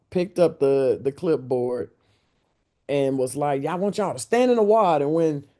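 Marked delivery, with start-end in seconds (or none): 3.6-5.4 a light impression of the coach, somewhat higher; imitating Van. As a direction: play the laid-back coach calling a loose play. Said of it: "You sound just like him".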